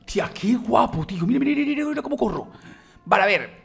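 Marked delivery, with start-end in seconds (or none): 0.0-2.5 high-pitched excited gushing; giddy gamer amazement; wildly impressed. Real, not acted. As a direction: show it off, voice climbing high. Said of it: "estoy muy flipado".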